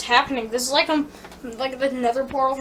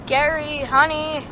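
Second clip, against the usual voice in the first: mom voice; much slower than usual. Acted. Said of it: "honey ... sweetheart".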